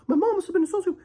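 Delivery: high, put-on voice of a know-it-all critic; mocking voice. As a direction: sneer it out like a smug armchair psychologist. Mocking armchair diagnosis.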